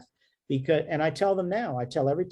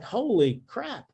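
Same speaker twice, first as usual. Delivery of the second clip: higher, slow dismayed gasp of words; doctor recalling his missed cancer, slow, higher and shocked; shocked realization; 5 semitones higher, slower than usual. Retold or imitated. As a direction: replay the moment you spot your own miss. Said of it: "And I'm like".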